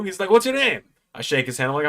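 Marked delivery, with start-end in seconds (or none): 0.3-0.8 high, loud wrestler impression; rough imitation of a star, pitched well up; Joe Hendry. Wrestler asks the fan's name, impersonated. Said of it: "not the best Joe Hendry impression".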